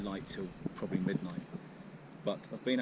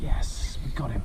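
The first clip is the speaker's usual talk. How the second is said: excited; 6 dB louder, slower than usual. Real, not acted. Fish hooked, celebrating.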